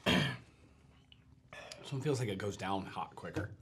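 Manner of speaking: slow hoarse whisper. Real, not acted. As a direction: whisper it slowly, throat burning. Whispered while burning.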